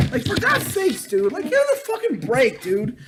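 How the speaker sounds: fed-up cry against the Curry hype; exasperated. Real, not acted. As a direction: throw up your hands at the hype.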